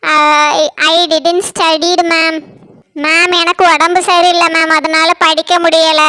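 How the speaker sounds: very slow, dragged-out apology; pleading apology. Acted. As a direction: stretch every word, begging forgiveness. Student apologises to angry teacher. (மிக மெதுவாக இழுத்து மன்னிப்பு கேட்பது)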